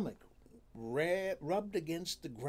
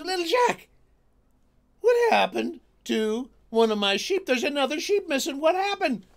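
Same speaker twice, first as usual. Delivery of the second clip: angry king; 13 semitones higher, 15 dB louder than usual. Acted. King finds another sheep missing.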